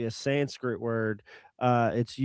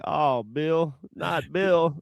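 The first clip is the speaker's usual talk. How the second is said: mildly mock-dismayed; a touch of acted disappointment; disappointed; 4 semitones higher, much slower than usual. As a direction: imitate a let-down friend. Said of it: "He kinda sounded disappointed".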